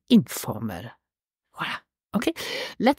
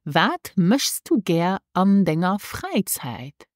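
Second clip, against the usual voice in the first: slow model phrase; slower than usual. Shown as a demonstration. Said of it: "This is".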